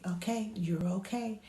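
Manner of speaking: soft, gentle reassurance; quiet comforting murmur; soothing. Shown as a demonstration. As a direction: hush a fussy baby. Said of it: "I'm soothing".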